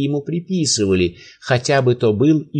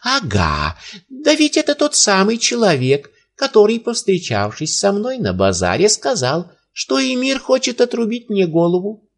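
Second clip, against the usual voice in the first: high, raised cry of recognition; old man crying out; 8 semitones higher than usual. A narrator's reading. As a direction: pitch it up and cry out. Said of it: "закричал".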